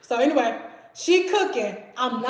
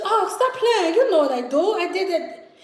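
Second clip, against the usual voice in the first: put-on higher, accented Haitian roommate; imitated Haitian accent; 5 semitones higher than usual. Roommate brushes off the storyteller's shock, imitated Haitian accent. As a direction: mimic a Haitian woman brushing off a question. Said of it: "these Haitian roommates".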